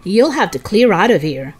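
loud call without raising the pitch; yelling. Acted. Man orders protesters away from van, yelling. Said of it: "a man yelled from the moving van".

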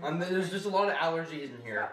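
acted crying excuse; tearful denial. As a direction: make excuses while fighting back tears. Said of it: "You're crying".

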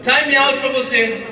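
slow, emphatic parent imitation; mock stern parent. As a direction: lay down the time-out. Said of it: "os pais falando assim".

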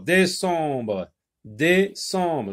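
"décembre" split as dé-cembre; syllable by syllable. Shown as a demonstration. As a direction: sound out "décembre" in two measured beats.

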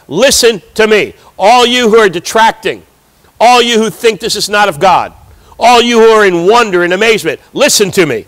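a preacher's restrained version of shouting; retold shouting. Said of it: "He's shouting to them".

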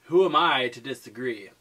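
drawn-out Valley Girl impression. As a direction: stretch the vowels like a Valley Girl. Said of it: "Valley Girl".

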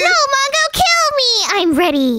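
high-pitched mock impersonation; imitating Wudo. The speaker voicing Wudo's clone to Mongo, high imitation. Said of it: "I'm better at doing a you voice".

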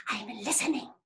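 half-whispered, concentrating; hushed rabbit. Acted. Rabbit straining to hear, hushed. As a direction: say it under your breath while listening.

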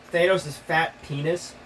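slow deadpan. Real, not acted. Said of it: "Why'd you say it like that?".

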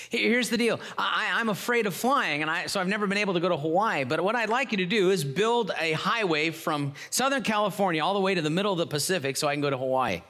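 high and eager, rushing; excited. Acted. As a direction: blurt the wish out eagerly. Man eagerly states wish.

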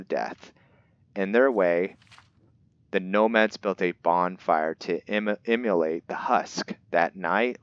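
put-on measured storybook narration of an old legend; book reading. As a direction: read it like an ancient tome, lightly dramatic. Reads the in-game book aloud.

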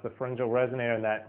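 ordinary delivery

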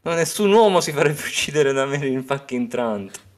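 Hound quote in a put-on voice; Sandor's voice. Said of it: "e lui fa".

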